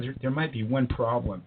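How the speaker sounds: hushed confiding whisper; whispered hint. Retold or imitated. Stranger confiding to the narrator about his origin, whispered. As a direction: breathe it like a secret. Visitor hints he is alien.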